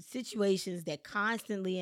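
slow down and lean on "constantly"; "constantly" drawn out for emphasis; stress on CONSTANTLY. Real, not acted. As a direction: give "constantly" deliberate emphasis. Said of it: "I wanna emphasize the word constantly".

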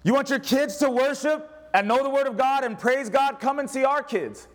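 high, eager voice of a church greeter; playful hammed-up invitation; mock invitation. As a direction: pitch it like a proud host. Preacher mock-inviting, congregation responds.

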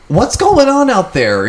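mock manager shouting. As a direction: stretch it out like a boss calling across the warehouse. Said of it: "He goes".

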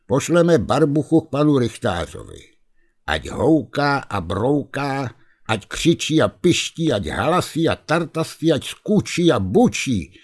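rally the lads with a plan; rousing bear-keeper. Acted. Kuba rallies the bear and ghost, lightly rousing.

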